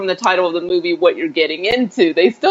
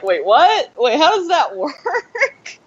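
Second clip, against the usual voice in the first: confused; 8 semitones higher, slower than usual. Retold or imitated. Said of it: "it's still like".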